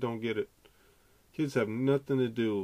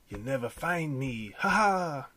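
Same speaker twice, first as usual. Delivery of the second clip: mock fugitive taunt; 2 semitones higher, slower than usual. Jokingly runs off to South America.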